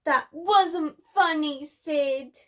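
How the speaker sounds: mild growl. Acted. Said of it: "growled Spike".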